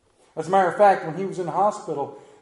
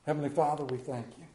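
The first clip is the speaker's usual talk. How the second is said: bow your head and pray gently; prayer; faster than usual. Acted. Begins a prayer.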